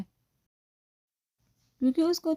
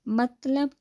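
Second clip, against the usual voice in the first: mild puzzled rise on "مطلب؟", a bit higher; puzzled question; 4 semitones higher, 3 dB louder, much slower than usual. Acted. Boss asking assistant, confused: "مطلب؟" rising. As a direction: ask "مطلب؟" confused, voice lifting. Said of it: "Noman نے الجھ کر پوچھا".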